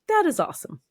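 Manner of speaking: high, bright mom praise; excited praise. Retold or imitated. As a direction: gush over the child's work. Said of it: "I'm like".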